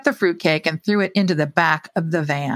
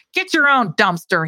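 snarled; 3 semitones higher than usual. Acted. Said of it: "he snarled".

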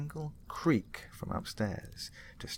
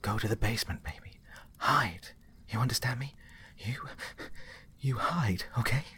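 through gritted teeth; 6 semitones higher than usual. Acted. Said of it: "his mum said through gritted teeth".

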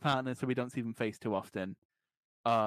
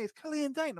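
very high mock-Scottish drunk; bad Scottish accent; 14 semitones higher than usual. Drunk Glasgow fans spotting a lookalike, bad Scottish accent. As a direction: crow it in a badly faked Scottish accent. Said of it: "Your impression of a Scottish accent".

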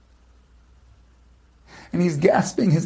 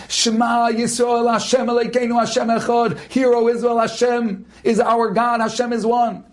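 retold scream; 6 semitones higher than usual. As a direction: cry out the prayer in the heat of battle. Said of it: "he is screaming on top of his lungs".

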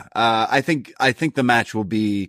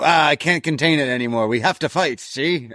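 hammed-up brawlers; 6 semitones higher than usual. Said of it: "all these guys go".

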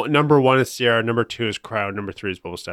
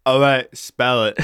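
imitating the phone agent; 3 semitones higher, 3 dB louder, slower than usual. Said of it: "that's pretty good".

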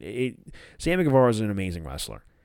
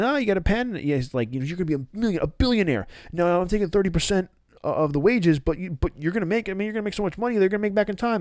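salesy Matt; 8 semitones higher, much faster than usual. Retold or imitated. Matt voiced pitching contract.

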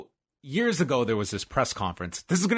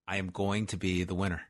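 low, soft, measured chant; low-key affirmation; 5 semitones lower, 6 dB quieter than usual. Pretend. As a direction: say it quietly, as a first mantra. Chanting affirmation, first take.

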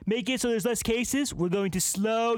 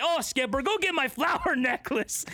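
captain voice; 5 semitones higher than usual. Pretend. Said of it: "the captain's like".

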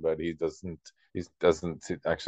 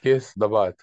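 robot voice; 3 semitones higher, 5 dB louder than usual. Retold or imitated. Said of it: "It's a good robot voice".

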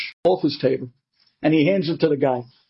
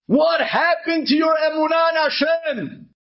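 amused rebuke; 9 semitones higher than usual. Acted. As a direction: chide him with a laugh in it. Rebbe laughing at the man.

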